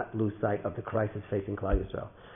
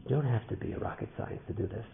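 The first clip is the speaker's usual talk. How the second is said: softer, subdued start to the moral; restrained; 7 dB quieter than usual. Real, not acted. Speaker draws the lesson for listeners, restrained and soft. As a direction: say it softly, holding back. Repeated line, restrained first take.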